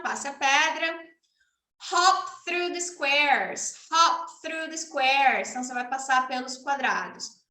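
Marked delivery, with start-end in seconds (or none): 1.9-5.5 You lost your turn said very slowly; slow teacher demo. Shown as a demonstration. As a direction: spell it out slowly for a child. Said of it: "demo for a child".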